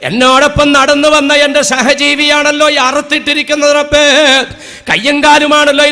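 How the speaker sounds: pleading wail calling on God; voicing a terrified beast begging to be saved; animal crying out. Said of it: "കരയുകയാണ്".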